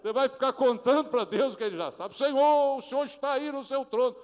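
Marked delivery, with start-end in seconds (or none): 2.2-4.2 high, loud, overdone churchy prayer; lightly hammed praying voice; mock pompous prayer. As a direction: ham up a long-winded believer telling God the obvious. Mocking a wordy prayer.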